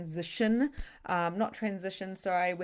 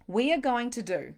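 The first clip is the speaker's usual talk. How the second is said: ordinary talk, nothing marked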